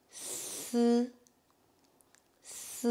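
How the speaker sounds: "s" held as a hiss into a buzzed, non-i vowel; drawn-out s. Shown as a demonstration. Teacher shows how S I is pronounced, long "s" without an i. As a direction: model "s" alone, drawn out. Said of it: "ça se prononce".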